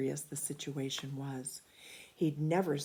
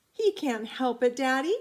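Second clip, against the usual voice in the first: put-on high, louder childlike plea; children pleading; 8 semitones higher, 7 dB louder than usual. A narrator's reading. Children begging father to forgive the dog, high and loud. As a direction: defend the dog to daddy.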